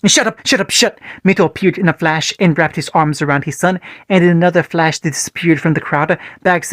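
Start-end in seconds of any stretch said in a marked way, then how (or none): 0.1-1.0 high, teeth-gritted yell. Acted. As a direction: scream it at the whole crowd. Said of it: "grit his teeth and yelled".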